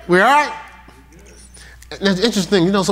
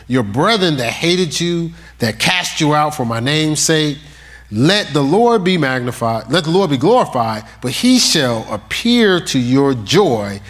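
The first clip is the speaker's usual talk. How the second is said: scripture reading; slower than usual. Acted. Reads scripture aloud.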